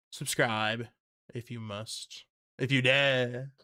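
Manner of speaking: hint of a spooky dare. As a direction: tease them in a spooky voice. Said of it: "This is my spooky voice".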